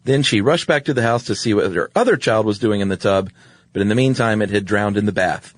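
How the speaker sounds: read-aloud story narration, lifted at sentence starts. A narrator's reading. Host reads a grim fairy tale to co-host, story reading. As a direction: read an old tale aloud, evenly paced.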